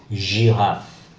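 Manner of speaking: giraffe with French "zh" for the G; soft G. Shown as a demonstration. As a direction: say giraffe as slow French "zhee-raf". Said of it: "give us a soft G".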